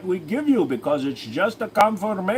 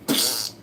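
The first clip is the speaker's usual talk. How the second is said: nose sound; 7 semitones lower, 4 dB quieter than usual. Retold or imitated. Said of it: "Your nose just goes".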